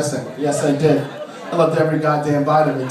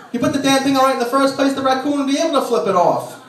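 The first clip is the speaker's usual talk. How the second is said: higher mock scolding comeback; wife's snapping retort; 6 semitones higher than usual. Wife answering husband's excuse, a higher mock scold. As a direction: fire it back at him, pitched up. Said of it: "wife's retort".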